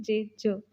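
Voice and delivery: ज cut off short; clipped j. Shown as a demonstration. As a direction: stop the sound on ज. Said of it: "आवाज़ को stop कर देते हैं".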